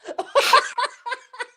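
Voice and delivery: loud, high burst of laughter; loud cackling laugh. Real, not acted. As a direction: lose it laughing. Group cracks up.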